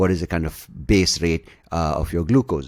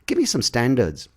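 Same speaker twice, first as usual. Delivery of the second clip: exasperated come on; 7 semitones higher than usual. Retold or imitated. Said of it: "I'm like".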